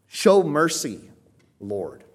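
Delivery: slow, high, loud plea; emphatic appeal. Acted. Peter calling upon the Father, loud emphatic appeal. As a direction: stretch out the appeal with force. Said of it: "He's calling upon the Father".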